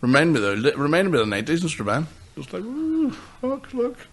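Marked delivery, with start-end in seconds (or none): 2.6-4.0 high squealing "ooh, look, look"; a hammed-up gawping crowd, pitched high; mock excited gasp. Mocking excited people in nineties Strabane.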